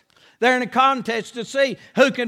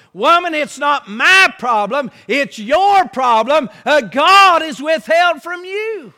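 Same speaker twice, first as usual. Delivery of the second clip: voiced angry Jacob; 3 semitones higher, 5 dB louder than usual. Preacher voicing angry Jacob.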